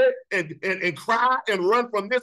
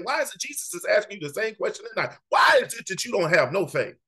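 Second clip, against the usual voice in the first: raised, fast challenge to the crowd; preaching shout. Real, not acted. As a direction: hammer the question home. Preacher calling out congregation.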